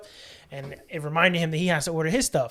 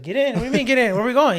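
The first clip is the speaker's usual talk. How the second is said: incredulous; 7 semitones higher, 6 dB louder, faster than usual. Retold or imitated. Retelling surprise at dad.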